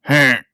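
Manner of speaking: short imitated chuckle; Mick Taylor. Podcaster copies the character laughing at his own joke, mock chuckle. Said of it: "does this thing where he chuckles".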